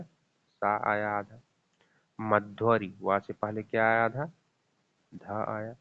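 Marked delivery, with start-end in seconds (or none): 0.0-1.4 slow explaining. Shown as a demonstration.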